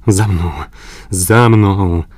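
rally the others, urgent; shouting command. A narrator's reading. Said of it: "zawołał Glenarvan". (pilne wołanie)

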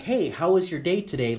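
bright, welcoming hey; open friendly greeting. Shown as a demonstration. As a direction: greet them with open arms. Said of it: "Like, and I'm open, my arms are open".

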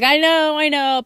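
retold child conceding to a shush; mildly impatient compliance. Shushed child answers mother back.

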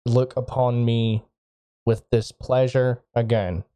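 flat, stiff forced apology; monotone through gritted teeth. Acted. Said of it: "in a very monotone voice, through gritted teeth".

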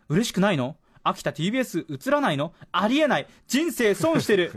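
mock-appalled classmates, rising in pitch toward the end; incredulous reproach. Classmates tease the writer for missing out on TBS, incredulous. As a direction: voice peers who can't believe it.

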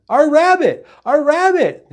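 high, loud mock wail of shock; hysterical cry. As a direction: shriek it as the hammed-up horrified neighbor. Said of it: "her neighbor cried".

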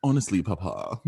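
put-on Downton Abbey style British accent. Grown child addressing Papa in costume drama, British accent. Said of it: "if we should keep Downton Abbey".

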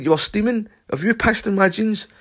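high, loud ranting accusation; furious accusation. Retold or imitated. Shouting at Stumpy about the puddle on the carpet, high and loud. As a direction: rant at him, insisting. Arguing with friend.

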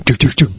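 quick "doo, doo, doo" impact noises; imitated thudding bumps. Guest retells dad's car running over a man, imitated thuds. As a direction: mimic a car bumping over something.

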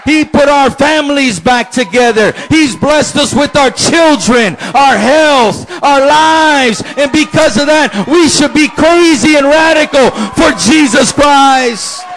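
slow, shouted sermon climax; full-force preaching. Acted. Pastor praising God's blessings, shouting to the church. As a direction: hammer each blessing home.

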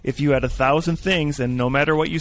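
mock praise, tongue in cheek; sarcastic. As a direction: fake enthusiasm for a flaw. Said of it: "See, I'm being sarcastic now".

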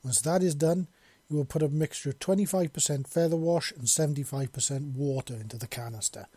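imperious mistress giving instructions; a hint of haughty authority; lightly voiced bird mistress. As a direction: instruct a servant, firmly and precisely. Bird mistress instructs her servant.

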